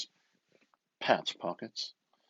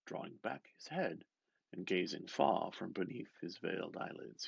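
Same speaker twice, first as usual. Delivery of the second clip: whisper; 5 dB quieter than usual. Acted. Narration whispered.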